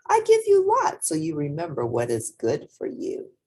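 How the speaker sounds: lightly voiced grandma. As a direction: fuss over the child like a loving lola. Grandma voice feeding child.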